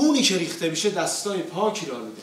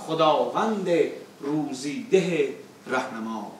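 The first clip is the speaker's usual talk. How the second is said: rhythmic declaimed verse, falling line ends; epic teahouse storyteller; slower than usual. Acted. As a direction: recite the verses with epic weight. Reciting opening verses.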